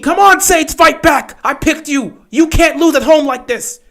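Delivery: high, urgent cheering for the team; pleading cheer. Real, not acted. Fan pleading with the Saints he picked, high and urgent. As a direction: beg them to fight back.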